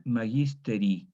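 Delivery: magisteri read with an extra e, ma-gis-te-ri, slowly; wrong reading. Shown as a demonstration. Teacher showing students the misreading, slow magisteri. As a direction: misread magisteri as four syllables. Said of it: "el lector podría equivocarse y leer".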